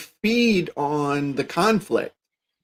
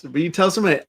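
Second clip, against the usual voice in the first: ordinary delivery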